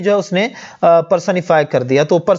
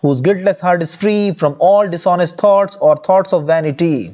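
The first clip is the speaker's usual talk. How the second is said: slow poem reading; much slower than usual. Shown as a demonstration. Teacher reading the first stanza to students, slow recital. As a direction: read the verse line slowly and deliberately. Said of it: "अगर हम पहले stanza को देखें तो".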